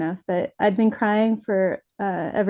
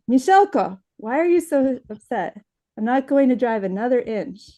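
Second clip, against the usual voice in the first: a hint of a dad demanding answers, pitched up; lightly voiced concerned dad; 4 semitones higher than usual. Dad stops driving to question daughter, mildly insistent. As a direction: lightly act an insistent parent.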